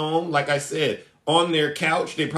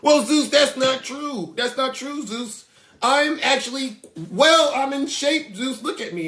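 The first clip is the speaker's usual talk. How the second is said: higher, whiny insistence; mock defensive fan; 6 semitones higher than usual. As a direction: protest like a sulky fan. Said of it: "And I said".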